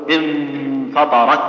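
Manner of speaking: انفطرت ending on a shut T with no breath; slow انفطرت, final T blocked and airless; sound stopped only. Shown as a demonstration. Teacher showing a common error, final sound stopped only. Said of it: "يحبس الصوت فقط".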